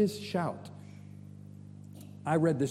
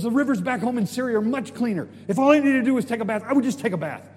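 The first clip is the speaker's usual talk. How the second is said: raised-voice indignant complaint; angry; 6 semitones higher, 6 dB louder, faster than usual. Acted. General comparing the rivers back home, acted angry rant. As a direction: argue loudly, pitched up in acted outrage. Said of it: "he gets angry".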